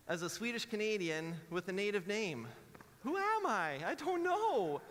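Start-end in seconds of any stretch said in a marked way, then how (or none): 3.0-4.8 very high, loud comic wail; mock identity crisis. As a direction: cry out in hammed-up bewilderment.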